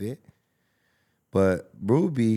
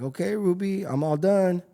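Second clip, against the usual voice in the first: put-on eager little boy; 10 semitones higher than usual. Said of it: "I'm like".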